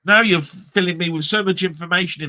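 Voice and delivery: loud, high burst of mock amazement; retold amazement. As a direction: act out being blown away. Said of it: "And I'm going".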